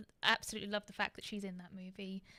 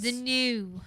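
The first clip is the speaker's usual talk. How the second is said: louder breathy drawn-out new; Jennifer Coolidge voice; 3 semitones higher, 9 dB louder than usual. Pretend. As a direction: stretch new in a husky purr. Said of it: "Why do I sound like Jennifer Coolidge when I go new?".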